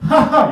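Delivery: high, loud mock laugh; two quick acted ha-has; imitated laugh. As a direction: fake a burst of laughter. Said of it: "and you laugh".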